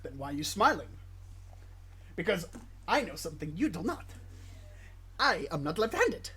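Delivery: put-on deliberate movie-duel line in an Italian-like accent; put-on Italian accent, measured delivery; Italian-sounding movie accent. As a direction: quote it in a mock Italian accent. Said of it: "'cause it sounds Italian".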